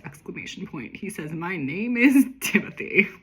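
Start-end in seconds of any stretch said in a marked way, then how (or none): 1.3-3.1 pompous assistant. Acted. Stuffy assistant introduces himself.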